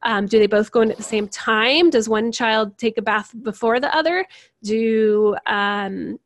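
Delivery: acted parent, a touch of frustrated bewilderment; mildly frustrated. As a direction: press for exact details, mildly exasperated. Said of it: "The sensing parent will get frustrated".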